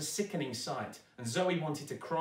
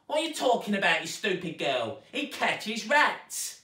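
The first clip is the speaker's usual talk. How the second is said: shouting stepmother; 8 semitones higher, 7 dB louder than usual. A narrator's reading. Stepmother yelling at Zoe about Bert. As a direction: shout her down. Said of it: "shouted Zoe's stepmother".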